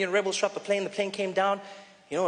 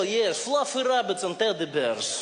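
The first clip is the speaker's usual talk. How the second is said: mock Russian accent; slower than usual. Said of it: "even if Russians say nice things".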